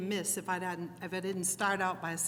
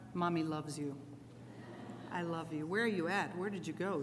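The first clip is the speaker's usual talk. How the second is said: tender; 7 dB quieter than usual. Real, not acted. Mother tells daughter she loves her from stage, tender.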